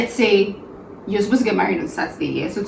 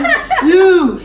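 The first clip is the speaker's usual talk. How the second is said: laughing, high and loud; laughing count; 8 semitones higher, 4 dB louder than usual. Real, not acted. Counting up playfully.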